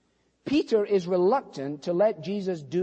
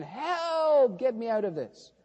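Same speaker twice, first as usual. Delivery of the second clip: mock shout; 2 semitones higher than usual. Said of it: "next minute he's shouting".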